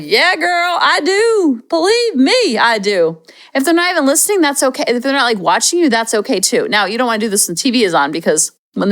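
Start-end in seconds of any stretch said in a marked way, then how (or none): 0.0-3.2 higher-pitched emphatic agreement; kids' sassy reply. Retold or imitated. Kids answering the parent, imitated sassy reply. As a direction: play a kid heartily agreeing. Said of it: "And they're like".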